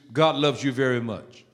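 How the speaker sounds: gentle reassurance. Shown as a demonstration. Repeats it for those with issues.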